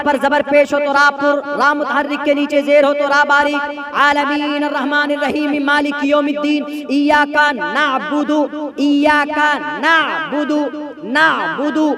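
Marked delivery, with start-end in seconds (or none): 4.0-11.9 slow recitation, ऐन in नअबुदु from the throat; tajweed recitation. Shown as a demonstration. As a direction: recite carefully letter by letter. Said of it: "ऐन निकालेंगे".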